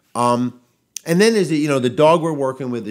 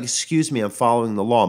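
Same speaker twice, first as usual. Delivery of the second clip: indignant retort; 4 dB louder than usual. Retold or imitated. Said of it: "It's like".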